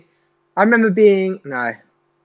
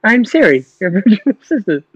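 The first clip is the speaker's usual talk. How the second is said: slightly raised mock assistant voice; mock Siri; 3 semitones higher than usual. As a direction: lightly imitate a virtual assistant introducing herself. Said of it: "What's your job?".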